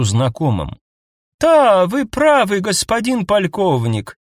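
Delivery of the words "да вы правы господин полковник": very high, slow elf voice; too high elf voice. Acted. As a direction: speak in an unnaturally high voice. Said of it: "сказал эльф слишком высоким голосом".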